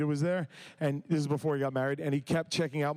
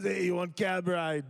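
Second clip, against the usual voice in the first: slow, broken mock foreign cabbie; lightly put-on cabbie speaking broken English; mock cabbie accent; slower than usual. Costa Rica cabbie greeting the tourist, slow mock accent. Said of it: "That's not how they speak there".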